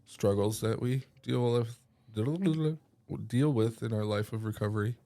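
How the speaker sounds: stuffy head cold voice. Real, not acted. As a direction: speak through a blocked nose from a cold. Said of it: "it's affecting how I speak, how I breathe".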